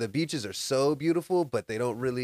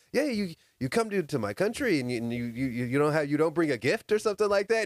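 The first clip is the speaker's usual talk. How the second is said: a hint of a pushy official, pitched a bit up; customs officer; 3 semitones higher than usual. Customs guy pressing Sandy for a gift, lightly higher voice. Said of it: "He's like".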